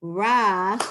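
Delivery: "Shav" et "ra" détachés, forts, pause entre; staccato. Shown as a demonstration. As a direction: syllabes lentes, séparées, appuyées. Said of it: "let's do line two like that".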